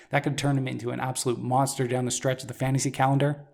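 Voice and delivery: hoarse, worn-out voice. Real, not acted. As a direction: voice going hoarse after a long show. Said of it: "I'm losing my voice".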